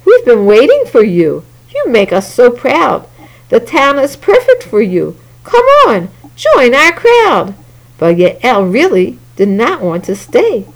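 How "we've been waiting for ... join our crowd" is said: mayor voice. Acted. Mayor continues welcoming.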